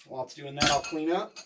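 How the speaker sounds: winded, breathy speech; out of breath. Real, not acted. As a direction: talk while catching your breath. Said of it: "Man, I'm out of breath again".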